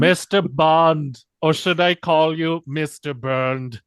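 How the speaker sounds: slow, loud gloating villain; villain monologue. Acted. Mock Bond villain taunting.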